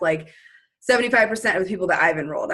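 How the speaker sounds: ordinary delivery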